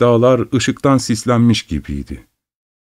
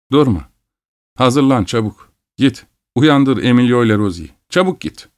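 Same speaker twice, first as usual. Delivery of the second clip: urgent orders; 3 semitones higher than usual. Acted. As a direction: push him to hurry, rising.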